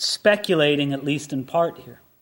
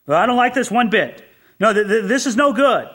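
understated indignant grumbling, slightly raised pitch; higher-pitched, half-hearted scolding; mild mock anger; 4 semitones higher, 4 dB louder than usual. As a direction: act out a king's ineffectual anger. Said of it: "but he was angry".

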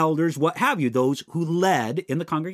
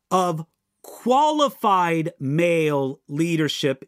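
"qualified" slowed and leaned on; stress on qualified; slower than usual. Shown as a demonstration. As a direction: drag out "qualified", giving it weight. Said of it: "I want to stress that word qualified".

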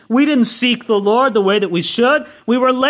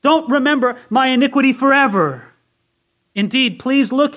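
imitated earnest plea to God, raised higher and louder; pleading prayer; 5 semitones higher, 4 dB louder than usual. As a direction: beg the Lord with urgent feeling. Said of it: "It's as if he prayed".

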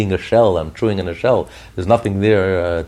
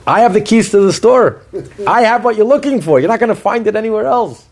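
the godly soul, raised higher and louder, firm and insistent; godly soul speaking; 10 semitones higher, 5 dB louder than usual. Retold or imitated. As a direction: speak as the soul who holds the keys, lightly voiced. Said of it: "And the godly soul says".

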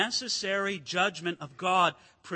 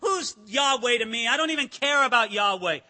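defiant Pharaoh; 4 dB louder than usual. Retold or imitated. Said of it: "he didn't respect the Lord".

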